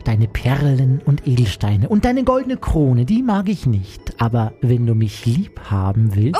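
slow, drawn-out frog voice; bargaining frog character. Acted. Frog turns down the princess's treasures, slow character voice. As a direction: stretch the refusal out as a frog.

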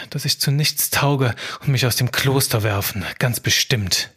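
anxious scribe. Acted. Scribe alone at night, doubting himself, worried inner voice. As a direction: fret as the scribe who fears being found out.

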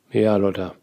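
whispered, weary irritation; annoyed. Acted. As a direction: breathe it out, fed up. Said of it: "Er klingt genervt". (genervt geflüstert)

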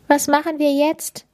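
sad. A narrator's reading. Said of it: "fragt Linus traurig".

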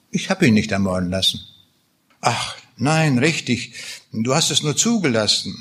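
a reader lightly voicing Beckmann's bitter accusations against God; bitter, understated drama reading of a war-weary soldier; dramatic reading. Reads Beckmann and God dialogue.

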